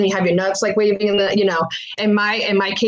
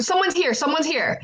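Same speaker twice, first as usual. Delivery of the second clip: warding off housekeeping; 5 semitones higher, 4 dB quieter than usual. Retold or imitated. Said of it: "what you say to s-, dismiss".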